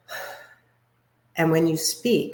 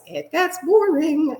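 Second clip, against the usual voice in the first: drawn-out boring; 9 semitones higher, slower than usual. Shown as a demonstration. Drawn out to mock boring delivery.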